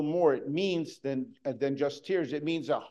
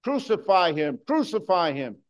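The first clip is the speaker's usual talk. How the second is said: mob cry; 4 dB louder than usual. Retold or imitated. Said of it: "those same people would be crying out".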